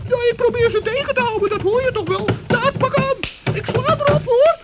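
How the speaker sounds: loud, straining fake fight; pretend brawling. Gnome staging a fight outside the fox's door, loud. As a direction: sound like you're fighting hard.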